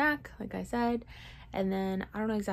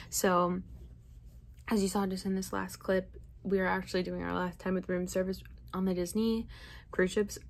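chewing while talking. Real, not acted. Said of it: "I'm gonna be a little rude now and talk, um, while I'm eating".

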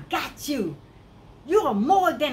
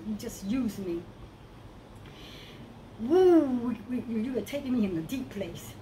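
prayer. Real, not acted. Spontaneous prayer.

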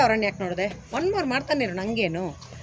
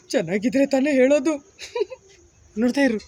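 moderately projected line reading; firm voice from within; 2 semitones lower than usual. Shown as a demonstration. Director shows child actor a voice from inside, firm. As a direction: push it from inside, without shouting. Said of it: "ಆದ್ರೆ ಜೋರು voice".

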